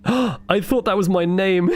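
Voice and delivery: delighted shock, laughing; laughing surprise. Real, not acted. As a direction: gasp into a laugh, slow. Startled by a name.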